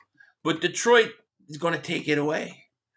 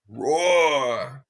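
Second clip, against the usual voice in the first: low roar; 7 semitones lower than usual. Pretend. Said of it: "add a roar soundbite".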